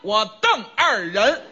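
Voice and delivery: slow. Shown as a demonstration. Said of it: "颠倒过来说".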